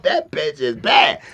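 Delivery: drawn-out shout of approval; impressed friend hollering it slowly; slow loud admiration. Retold or imitated. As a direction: stretch every word and call it out loud. A rapper admiring the masseuse.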